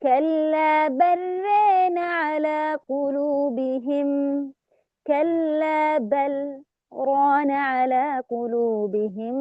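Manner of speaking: slow recitation, لام of بل merged into ران with tilted vowel; Shu'ba's reading; idgham with imala. Shown as a demonstration. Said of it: "يدغم اللام في الراء مع إمالة".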